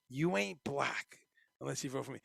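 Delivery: quoting Biden slowly and quietly, letting each word land; slow stunned Biden quote. Retold or imitated. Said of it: "to, to, what?".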